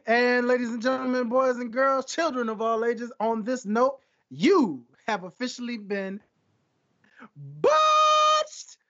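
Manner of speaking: grand showman announcement, rising; ringmaster. Acted. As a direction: build to a big shouted botched.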